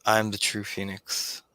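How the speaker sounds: echoing taunting voice. Acted. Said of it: "this voice echoing out".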